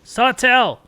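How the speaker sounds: shouted name, high and loud; calling out. Real, not acted. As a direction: call the name across the room. Calling out to someone offscreen.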